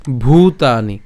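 "ভূতানি" with a strong aspirated bh; emphatic bhoo opening "ভূতানি"; forceful bh. Shown as a demonstration. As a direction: push breath into the bh of "ভূতানি". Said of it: "অবশ্যই জোর দিয়ে উচ্চারণ করাটাই আবশ্যক".

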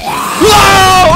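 long high yell of fright; jump-scare scream; startled scream. Real, not acted. 갑자기 놀람. (갑자기 놀라서 길게 지르는 비명)

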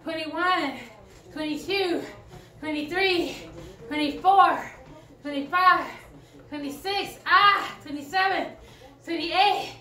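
straining while pedaling hard; cycling hard. Real, not acted. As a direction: push the count out through effort. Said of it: "My legs are burning".

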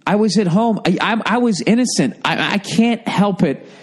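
smug, unbothered ladies' man; cocky arrogant. Pretend. Advising a guy to play it cocky with his sister, smug. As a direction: brush it off with swagger. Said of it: "go totally fucking arrogant".

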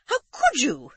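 high, loud shocked cry; shocked exclamation. Acted. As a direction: gasp it out in horror. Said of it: "exclaimed Amanda".

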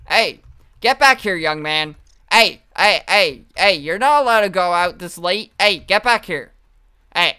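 mock-strict parent calling a kid back; scolding parent. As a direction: play the stern parent, half joking. Scolding runaway bug like parent.

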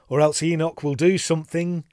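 high, loud, pleading warning; urgent calling out. A narrator's reading. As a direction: call out anxiously, building to a shout. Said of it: "I called out".

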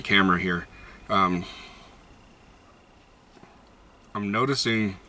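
talking around pipe stem; speaking while smoking pipe; pipe in mouth. Real, not acted. Seen 3: Pipe stem clenched in mouth throughout, smoke puffing out.

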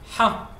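a forceful throaty Ha, like after spicy food; strong Ha sound. Shown as a demonstration. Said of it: "We write Ha".

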